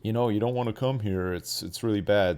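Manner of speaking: lightly voiced calm inmate; calm warning. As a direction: warn them gently, holding back. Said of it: "be calm at first".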